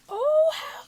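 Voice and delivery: high, slow gleeful squeal; delighted squeal. Real, not acted. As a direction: gush with delight. Squeal opening item.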